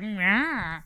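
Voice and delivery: high, whiny mimicked cry; teasing imitation of a roar; mocking imitation noise.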